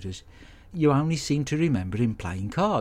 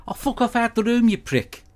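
angry yell; 11 semitones higher than usual. Acted. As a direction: bellow him out of the room. Shouting at roommate Randall.

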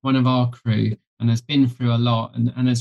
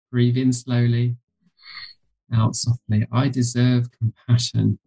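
guided meditation. Shown as a demonstration. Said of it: "I'll do a quick practice with you".

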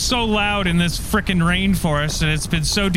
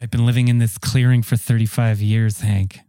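much lower put-on wife voice; long-lost wife; 7 semitones lower than usual. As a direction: explain it low, as the wife. Wife explains her disappearance.

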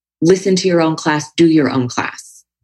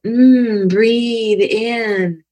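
mock class cue, pitched higher, lilting; imitated yoga teacher cue; 4 semitones higher, much slower than usual. Guest mimics a typical teacher's cue, lightly sing-song. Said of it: "if your tendency is to go".

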